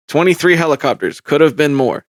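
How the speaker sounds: retold witness answer, stated with certainty; matter-of-fact quote. Podcaster imitating a witness reporting helicopters, matter-of-fact. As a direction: imitate her stating it as plain fact. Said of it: "she was very matter of fact".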